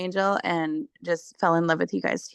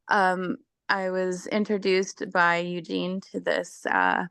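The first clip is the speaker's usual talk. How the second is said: losing her voice, rough and strained; hoarse voice. Real, not acted. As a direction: push words through a failing voice. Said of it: "losing my voice here".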